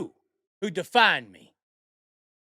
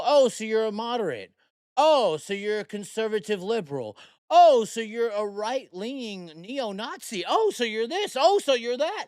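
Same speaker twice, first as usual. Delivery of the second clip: mocking accusers; 3 semitones higher than usual. Bar patrons keep guessing his politics, mockingly imitated. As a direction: pile up mock accusations, building in pitch. Retold accusers labelling him one after another.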